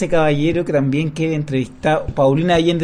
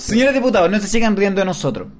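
mock grand speech; faster than usual. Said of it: "Un gran discurso".

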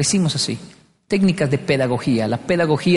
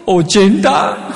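slow dumb answer; 4 semitones higher, 3 dB louder, much slower than usual. Retold or imitated. Child's confused answer.

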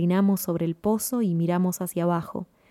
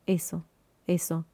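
murmured whisper; 2 semitones lower, 6 dB quieter than usual. A narrator's reading. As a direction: say it softly, almost to yourself.

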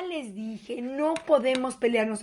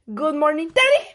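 put-on child reciting English; 3 dB louder than usual. Grandson's little English greeting.

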